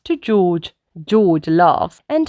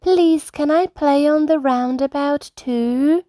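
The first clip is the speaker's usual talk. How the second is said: put-on higher, bright little girl greeting; Rebecca Rabbit voice; 9 semitones higher than usual. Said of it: "says Rebecca".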